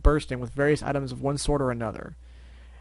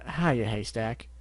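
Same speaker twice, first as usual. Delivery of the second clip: slow drawl; 3 semitones lower, much slower than usual. Acted. Male Applejack reply.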